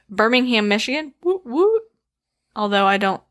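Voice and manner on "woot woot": high little cheering whoop. Real, not acted. Host cheering listeners in Michigan, high whoop whoop. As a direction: give a high double whoop. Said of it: "why did you give a whoop whoop".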